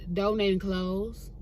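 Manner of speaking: slow, low, understated answer; matter-of-fact reply. Retold or imitated. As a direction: state it slowly, giving nothing extra. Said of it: "I said it just like that".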